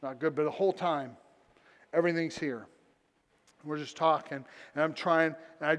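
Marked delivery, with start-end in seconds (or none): 0.0-0.3 low, subdued reply with a slight quiver; little quiver. Retold or imitated. Homeless man grieving his mom, slightly quivering. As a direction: imitate someone close to tears, mildly. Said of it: "started getting a little quiver".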